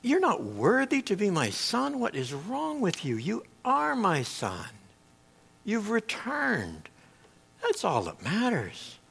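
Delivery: soft, slow and gentle; tender father. Retold or imitated. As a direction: hold him close with the words.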